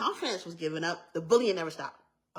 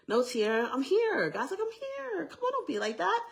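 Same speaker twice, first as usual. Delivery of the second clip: coaxing; 10 semitones higher than usual. Retold or imitated. God coaxing her in the retelling.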